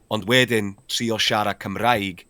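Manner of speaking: Welsh spoken in a put-on German accent, slow; slow Welsh with a light German accent. Shown as a demonstration. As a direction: acen Almaeneg wrth siarad Cymraeg. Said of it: "gyda acen Almaeneg".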